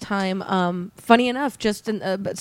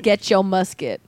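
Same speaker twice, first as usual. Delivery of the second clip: gangsta voice; 3 semitones lower than usual. Pretend. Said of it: "how he's also gangsta now".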